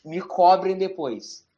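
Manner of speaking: slow dramatic prediction; drawn-out mock prophecy; ominous prophecy. Portentous prediction.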